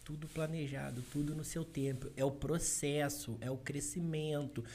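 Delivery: slow, soft and steady, calming friends down; calm reassuring quote. Retold or imitated. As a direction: reassure them quietly, no rush. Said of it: "E eu falava".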